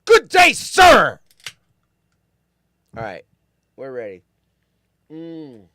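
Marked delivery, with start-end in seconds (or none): 0.1-1.2 much higher, much louder, shouted dismissal; theatrical shout. Acted. Host dismisses the chat loser with a shouted farewell. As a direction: bellow the farewell like slamming a door.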